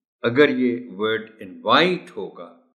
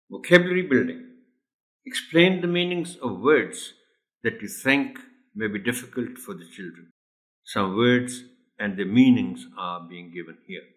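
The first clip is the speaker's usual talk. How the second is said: slow formal guide read; instruction reading; much slower than usual. Shown as a demonstration. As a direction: read the teacher's notes slowly. Reads teacher guide. (धीमी औपचारिक पढ़ाई)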